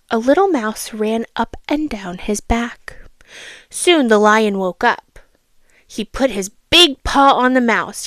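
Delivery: storybook reading voice; a child reading a fable aloud; story narration. A narrator's reading. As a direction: read it like a bedtime story. Reads second fable.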